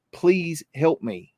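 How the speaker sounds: slow, lightly voiced plea of a little girl; little girl's plea. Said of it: "I hear this little girl say".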